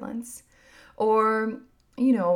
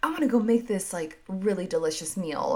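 excited. Retold or imitated. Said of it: "get really excited about something and be like".

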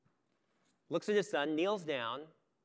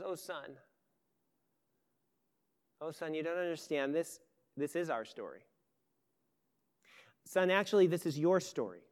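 tender father. Acted. Father looks into his son's eyes, a hint of tender gentleness.

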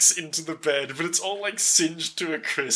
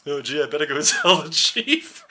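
dopey deputy. Retold or imitated. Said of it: "he's like".

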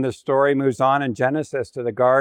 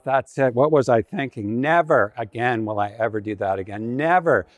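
regretful self-talk. Acted. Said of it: "she says to herself".

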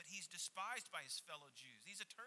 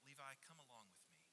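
softer, quicker, kindly asked; gentle invitation; 7 dB quieter, faster than usual. Shown as a demonstration. Jesus inviting the hated tax collector Levi along, gentle and kind. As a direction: invite him along like a friend. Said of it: "do you hear Jesus saying".

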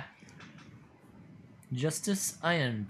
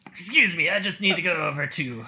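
gruff, louder, trying to leave; gravelly voice; 4 semitones higher, 4 dB louder than usual. Acted. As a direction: rasp out an excuse. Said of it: "those gravelly voices are hard on my vocal cords".

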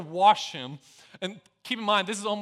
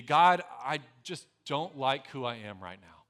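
simple confession; 7 semitones lower than usual. Shown as a demonstration. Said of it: "if I had to say it simply".

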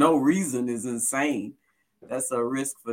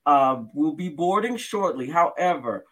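airport announcement. Acted. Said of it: "we cut to an airline".

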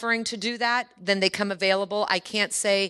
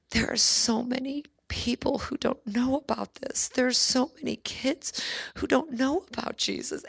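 light hint of a sincere little boy, a bit higher; little boy's earnest words; 5 semitones higher than usual. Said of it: "he said".

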